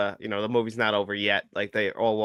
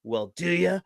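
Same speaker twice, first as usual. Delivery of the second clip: drawn-out tough-guy movie impression; slow, menacing challenge with long pauses; Jim Carrey's Clint Eastwood; 7 semitones higher than usual. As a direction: play the gunslinger, stretching each phrase. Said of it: "Jim Carrey did this impression".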